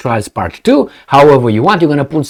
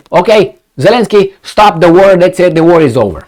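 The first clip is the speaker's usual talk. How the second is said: commanding order; 4 semitones higher, 4 dB louder than usual. Acted. Voicing US ordering Zelensky.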